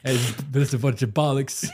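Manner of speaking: comic fake British accent; playful put-on British; mock British accent. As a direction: have a go at British slang. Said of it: "adopt a British accent".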